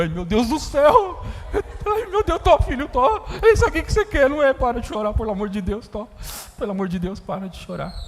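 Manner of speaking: put-on embarrassed father in the aisle begging the child to stop; panicked parent. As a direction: beg the child to stop, flustered.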